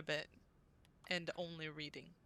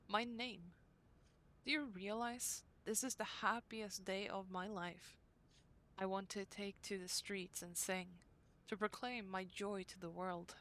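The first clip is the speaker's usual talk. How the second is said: diary reading; 4 dB quieter than usual. Acted. Reads diary entry from game.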